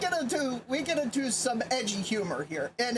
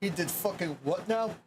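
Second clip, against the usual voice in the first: put-on Russian accent; 5 semitones lower than usual. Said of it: "my honest attempt at a Russian accent".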